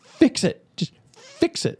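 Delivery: mock hysterical coworker; panicked plea. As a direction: beg in a growing panic. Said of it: "She's like".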